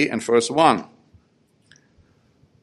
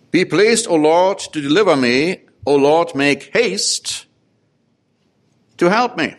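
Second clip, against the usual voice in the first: urgent plea; 4 semitones higher than usual. Acted. Preacher voicing psalmist's plea.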